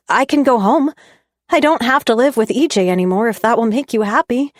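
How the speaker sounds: upset. A narrator's reading. Upset offer in quarrel.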